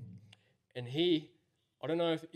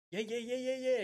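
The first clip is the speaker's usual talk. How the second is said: high, eager foreign trucker agreeing; 11 semitones higher than usual. Retold or imitated. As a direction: rattle off yeahs in his voice. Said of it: "trucker reply".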